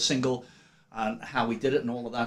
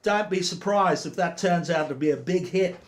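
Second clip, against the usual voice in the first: put-on Australian accent; 3 semitones higher than usual. Radio host reading a legend's review in Australian accent. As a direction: read the DJ quote with a hint of Aussie twang. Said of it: "so I do it in an Australian accent".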